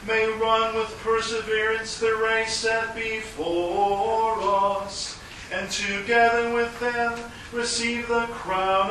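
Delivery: liturgical intoning. Acted. Priest intones eucharistic preface.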